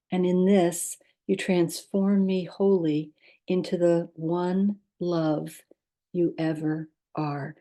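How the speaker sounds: measured, meditative verse with pauses between phrases; poem reading. Acted. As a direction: read the poem calmly, letting each phrase settle. Reads a short poem aloud.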